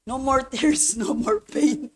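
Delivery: a quiet, laughing echo of the refrain; soft repeated refrain. Real, not acted. Pastor wishing to cry, refrain soft with a little laugh. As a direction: let it fall away almost to yourself. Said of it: "ba't hindi pa rin ako makaiyak".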